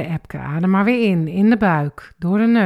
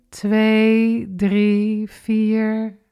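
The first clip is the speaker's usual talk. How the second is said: inhale count; 3 semitones higher, 3 dB louder, much slower than usual. Shown as a demonstration. Instructor counting the in-breath, lifted. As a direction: count held up and lifted, a little louder. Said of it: "En adem maar weer in".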